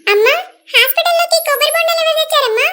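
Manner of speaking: a nurse telling visitors off. Acted. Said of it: "పెద్దమ్మ, ఆమె nurse".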